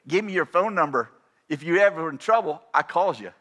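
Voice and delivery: lightly voiced old friend's slurred dialect; imitating Bob. Preacher retelling his guest's phone-number request, imitated folksy dialect. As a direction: imitate a folksy run-together delivery. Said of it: "he says, he go".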